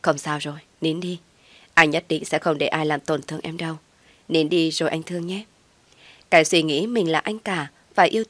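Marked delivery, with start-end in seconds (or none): 0.0-5.4 understated big-brother comfort. Acted. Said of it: "vẫn mỉm cười xoa đầu tôi nói".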